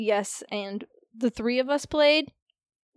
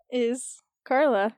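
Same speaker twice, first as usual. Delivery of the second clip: slow, dopey sloth voice; drawn out like a sloth; slower than usual. Acted. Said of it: "it's sloth".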